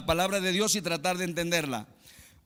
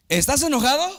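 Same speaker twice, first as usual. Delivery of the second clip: higher, louder questioning wife, lightly voiced; a wife probing her husband, pitched up; wife asking; 9 semitones higher, 8 dB louder, faster than usual. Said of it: "le dice la esposa al esposo". (la esposa pregunta, voz más aguda)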